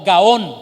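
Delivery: gaón with loud stress on the ón; stress on final O. Shown as a demonstration. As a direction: land firmly on the O of gaón. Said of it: "con acento en la O". (gaón con acento marcado en la O)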